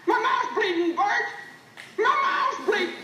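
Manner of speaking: laughing in delighted disbelief; elated, laughing cries; joyous laughter. Acted. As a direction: laugh through the words, overjoyed. Overjoyed to find himself alive.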